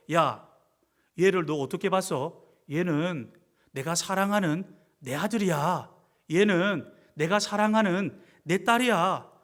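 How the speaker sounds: low, measured warning from a dad; a hint of a stern, low-voiced father; lightly voiced protective father. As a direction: lightly act a father standing up for his child. Father warns his child's bullies.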